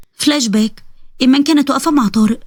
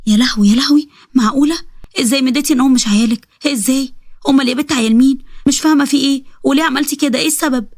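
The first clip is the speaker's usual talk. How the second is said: mildly appalled questioning; a touch of incredulous dismay; shocked disbelief; 2 semitones higher than usual. Acted. Friend hearing she signed away her children, understated shocked disbelief.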